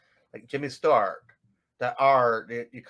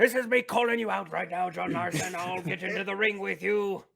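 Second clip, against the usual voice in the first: mock challenge; 4 semitones higher than usual.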